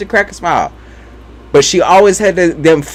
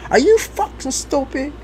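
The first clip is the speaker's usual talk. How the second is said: higher, slowed grandma scold; mock grandma scold; 9 semitones higher than usual. Grandma yelling at her grandchild, hammed up. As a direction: ham up an outraged granny. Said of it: "sometimes she'd be like".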